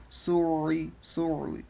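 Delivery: "সুই" with a long throaty ayn; stretched Arabic ayn inside "সুই"; from the throat. Shown as a demonstration. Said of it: "গলার মধ্যে নিতে হবে".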